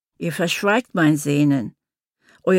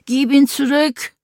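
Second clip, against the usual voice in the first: higher, louder plea to give him back; calling out; 8 semitones higher, 4 dB louder than usual. Acted. Mother calls out to the officials to return her son. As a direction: call out for the child. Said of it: "rief ich".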